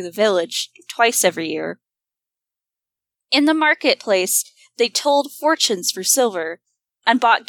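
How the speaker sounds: measured, solemn storytelling; story narration. Acted. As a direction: read it like an old tale. Reads the story aloud.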